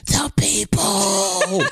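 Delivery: high, slow, drawn out; imitating her high partner, high and slow; mock spooked voice. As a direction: stretch it out, eerie. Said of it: "You were like".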